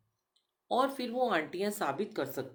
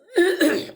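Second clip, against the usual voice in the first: sharp loud throat clear; forceful throat clearing before continuing; 13 semitones higher, 13 dB louder than usual. Real, not acted. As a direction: clear the throat hard and high. Loud throat clearing mid-talk.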